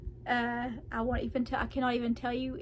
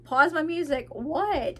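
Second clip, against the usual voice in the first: startled reply; 5 semitones higher, 5 dB louder, slower than usual. Retold or imitated. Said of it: "And I'm like".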